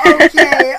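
loud sharp voice. Real, not acted. Sharp loud after loss.

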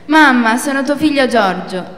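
loud burst on Mamma, then eager; excited exclamation. Acted. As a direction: announce yourself to your mother with joy. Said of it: "esclama lui".

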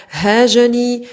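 هاجني with the final ya sounded long; full final ya. Shown as a demonstration. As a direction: say هاجني alone, ending on a long ee. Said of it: "تحذف الياء في هاجني".

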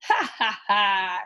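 hammed-up witch laughter; mock screeching laugh. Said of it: "screeched the twins".

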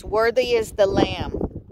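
mild loud proclamation. Retold or imitated. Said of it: "saying with the loud, loud voice".

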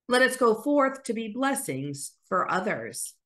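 solemn blessing voice; benediction. Acted. Pastor blessing the congregation at the close, solemn. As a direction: send the people out with a blessing.

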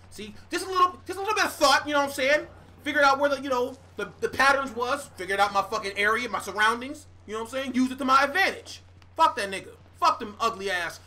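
loud, pleased boasting; cocky bragging. Real, not acted. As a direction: gloat after escaping. Boasting after escape.

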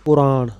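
ਪੁਰਾਣ with a clear u after ਪ; ਪੁਰਾਣ pronounced in full, three sounds pu-raa-N; correct pronunciation. Shown as a demonstration. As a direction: say ਪੁਰਾਣ as pu-raaN, not ਪ੍ਰਾਣ. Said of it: "ਪੱਪੇ ਨੂੰ ਔਂਕੜ ਨਾਲ ਪੁਰਾਣ".

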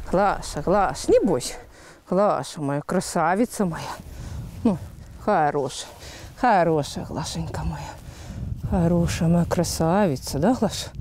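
low, soft, gentle coaxing; calm the nervous mare tenderly; soothing a horse. Real, not acted. Owner soothing her mare.

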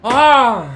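sharp loud scream of shock; startled scream. Real, not acted. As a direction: yell out as the car hits. Crash impact. (grito de susto)

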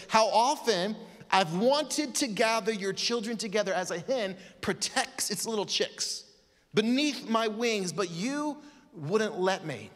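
longing to gather them close; tender lament. Acted. Jesus longing to gather his children, tender lament. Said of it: "He said this, he said".

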